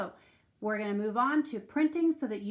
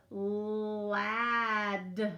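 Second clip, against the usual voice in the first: dying robot voice. Shown as a demonstration. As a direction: sound out ladder like a winding-down robot. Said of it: "like a robot whose batteries are dying".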